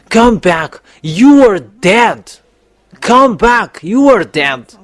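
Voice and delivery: preacher's call. Acted. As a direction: call them back with rising force. Addressing humanity in a sermon.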